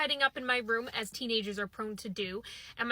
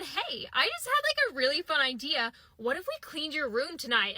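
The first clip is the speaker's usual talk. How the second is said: mock perky pitch. Best friend coaxing narrator to clean, mock perky. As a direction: pitch it brightly as a really fun idea.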